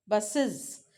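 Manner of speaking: बसेस as two syllables, bus-iz; extra plural syllable. Shown as a demonstration. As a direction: add a separate iz syllable to बसेस. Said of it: "नया ही syllable बन जाता है".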